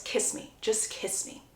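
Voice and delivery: soft breathy whisper; whispered, intimate plea. Acted. Gregory pleading with Lucy, whispering close.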